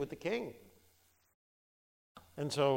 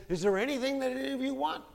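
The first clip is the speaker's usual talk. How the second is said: higher and fast, making an open offer; generous president; 11 semitones higher, 5 dB louder, faster than usual. Retold or imitated. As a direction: offer them anything. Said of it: "He says".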